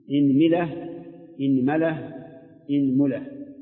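إنملة as inmila, inmala, inmula; إنملة with i on the hamza and each vowel on the meem; kasra hamza, three meem vowels. Shown as a demonstration. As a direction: run إنملة through i, a, u on the meem. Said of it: "اكسر الهمزة مع تثليث الميم".

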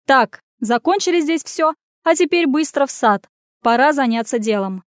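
a touch of a cheerful shout. Acted. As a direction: clap and shout them to the garden. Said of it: "закричала".

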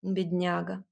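usual speaking voice

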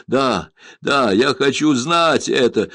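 loud, high eager outburst; eager exclamation. A narrator's reading. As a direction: demand it with tearful urgency. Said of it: "воскликнул лорд Джеймс".

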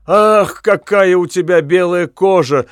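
high, loud rapture; delighted exclaim. A narrator's reading. Mad witch admiring her lover's bared back, delighted. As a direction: gush over his skin. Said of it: "воскликнула Катлина".

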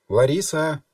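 громкий зов через закрытую дверь; позвать погромче, выше, через дверь. A narrator's reading. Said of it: "позвали из-за двери". (громко зовёт из-за двери)

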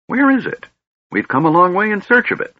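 put-on high, sharp old man asking; cunning mage pressing the knight; shrewd old wizard. Fizban turns shrewd.

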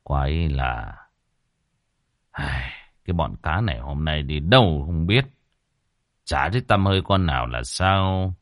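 put-on muttering old man. A narrator's reading. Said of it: "mà lẩm bẩm".

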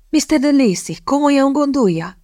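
high, breathless mock astonishment; feigned surprise. Kitty pretending shock at the proposal, high and surprised. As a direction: gasp it out as if stunned.

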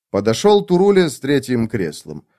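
ordinary delivery, nothing marked

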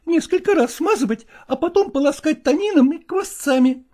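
high, fussing female voice; woman's voice. Acted.

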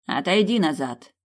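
loud order to step back; commanding. Acted. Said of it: "велел мне жрец".

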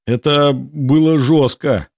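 slow, drawn-out exclamation on an outbreath; breathless exhale. A narrator's reading. Genka after escaping the turrets, breathless relief. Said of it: "выдохнул Генка".

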